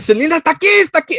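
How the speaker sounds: a mild excited shout-whisper of news; excited stock boy. Retold or imitated. Stock boy tells the others a singer is here, excited. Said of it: "He's like".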